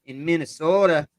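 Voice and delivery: Minnesotan accent. Shown as a demonstration. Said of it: "that's how they would say Minnesota".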